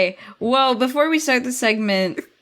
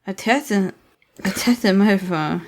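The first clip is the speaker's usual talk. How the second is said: slow mock echo of a friend; mumbled mimicry; mocking imitation; 3 semitones lower, slower than usual. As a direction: tease her by parroting her words slowly. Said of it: "Is that what I sounded like?".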